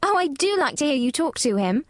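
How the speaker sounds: put-on lifted, gushing little-girl delight. A narrator's reading. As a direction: exclaim with a child's pleasure. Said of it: "laughing delightedly".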